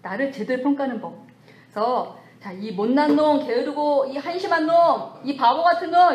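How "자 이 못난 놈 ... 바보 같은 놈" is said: harsh scolding of oneself, building higher and louder; mock self-scolding. Preacher mimics people berating themselves. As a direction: berate yourself like a harsh critic. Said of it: "이렇게 자기를 내치지 말고".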